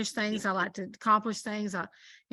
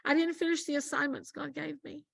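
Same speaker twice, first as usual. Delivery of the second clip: tearful woman; 5 semitones higher than usual. Retold or imitated. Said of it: "well, she didn't say list".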